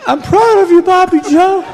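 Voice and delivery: hammed-up frail old man pushing the words out; mock weakened voice. Dying father to son-in-law, a mock weakened voice. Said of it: "in a weakened voice".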